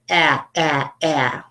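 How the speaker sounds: short "Ah" repeated slowly; 模仿Slate先生，重复短音"Ah". Shown as a demonstration. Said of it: "pretend Mister Slate says".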